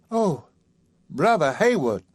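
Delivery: a lady caught off guard; flustered Sally. Acted.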